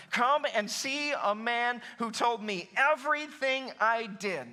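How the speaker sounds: slow, stretched-out proclamation; acted-out public call; telling everyone. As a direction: announce it to the whole village, drawing out the words. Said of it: "telling everyone".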